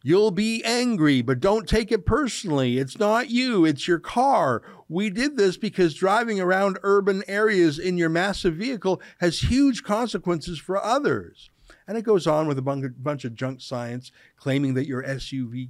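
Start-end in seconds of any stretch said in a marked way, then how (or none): 0.0-11.5 mock read-aloud. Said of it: "I'll read a bit more from the flyer".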